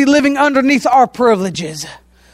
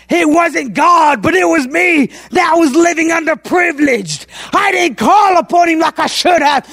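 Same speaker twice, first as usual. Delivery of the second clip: higher, shouted confession, first words slowed; rising pulpit shout; preaching; 3 semitones higher than usual. Acted.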